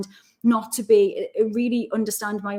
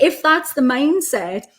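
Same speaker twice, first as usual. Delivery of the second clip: laughing dad quote; 6 semitones higher, 4 dB louder than usual. Retold or imitated. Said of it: "he's like".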